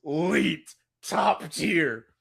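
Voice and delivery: high, loud gushing over the casting; hyped reaction. Retold or imitated. Fan hyped by casting news, gushing high and loud. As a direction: rave like a fan who just saw the news. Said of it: "I'm like".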